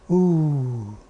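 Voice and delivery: long drawn-out falling "ooh"; a mild, acted groan of hurt; pained ooh. Father finds no Susie waiting.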